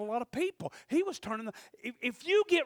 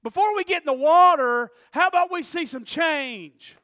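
modern preacher's version; 4 semitones higher, 11 dB louder than usual. Shown as a demonstration. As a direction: show how a preacher today would say it. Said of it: "if a preacher talked like that today".

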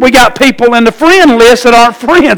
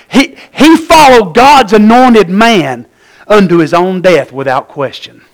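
choked up; 3 semitones lower than usual. Real, not acted. Preacher moved by Uriah's loyalty, choking up. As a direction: let it catch in your throat.

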